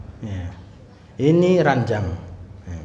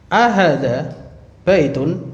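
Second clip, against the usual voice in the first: "Ahadza baitun" in two parts, each rising; question intonation; slower than usual. Shown as a demonstration. Teacher models a yes-or-no question about a house, questioning intonation. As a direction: lift "Ahadza", pause, then lift "baitun". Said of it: "intonasinya gitu".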